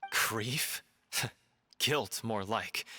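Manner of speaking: slow, cutting correction; scornful retort. Acted. Correcting a friend about Villemont's grief, with scorn. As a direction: drag it out with scorn.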